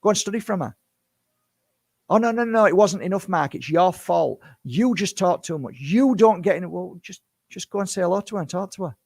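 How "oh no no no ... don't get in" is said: mocking critic. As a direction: parody a nagging critic, pitched up.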